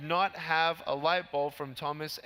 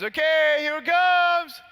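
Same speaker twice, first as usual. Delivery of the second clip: high-pitched, full-volume holler; calling out; 10 semitones higher, 10 dB louder than usual. Retold or imitated. Friend about to kick the ball, calling out. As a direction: shout a warning down the field.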